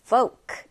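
"folk" with the L left silent. Shown as a demonstration. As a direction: say "folk" like "foke", no L sound. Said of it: "L 발음이 나지 않아요".

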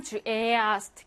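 에 in 주 에아스트 held long; long vowel exception. Shown as a demonstration. Teacher showing an exception, long e in 주 에아스트. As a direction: stretch the e of 에아스트. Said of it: "길게 발음하고요".

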